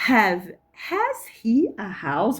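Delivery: slow "Has he a house?", has stressed; old-style question. Shown as a demonstration. Teacher reads the old book question slowly. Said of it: "Toda hora eles perguntam com".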